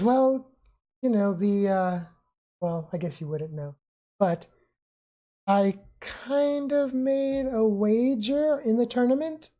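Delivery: stall, then blurt the confession slowly; sheepish Rio. Acted.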